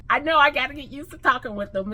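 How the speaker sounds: lisping a little on new teeth; fast talk with a slight lisp. Real, not acted. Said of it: "a little bit of a lisp".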